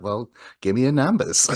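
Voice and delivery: put-on phone agent putting on a Boston accent. Cable agent asking an angry caller for details, Boston accent. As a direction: answer them in their own Boston accent. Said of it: "started to do their accent back".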